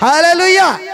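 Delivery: high ringing hallelujah shout; loud hallelujah. Real, not acted. Preacher calling hallelujah to the congregation, loud.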